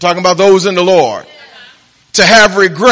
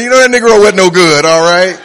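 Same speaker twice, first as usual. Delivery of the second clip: louder, fast mock confession of what mourners mean; blurting out the unspoken verdict, a bit louder; the real meaning; 4 dB louder than usual. Preacher mocking mourners' hidden judgment of the dead. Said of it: "What you really saying".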